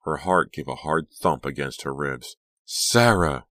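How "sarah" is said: louder cry of the name; shocked cry. Acted. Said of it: "she cried".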